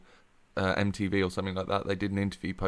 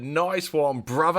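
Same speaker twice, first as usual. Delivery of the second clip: higher, drawn-out shout of greeting; film catchphrase impression; 6 semitones higher, slower than usual. Performing the favourite film scene on request, rowdy catchphrase impression. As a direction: draw out the last word, pitched up. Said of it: "does one of you want to do it".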